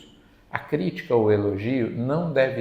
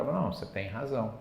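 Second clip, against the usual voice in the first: soft soothing agreement; 7 dB quieter than usual. Retold or imitated. Agreeing to calm an angry spirit.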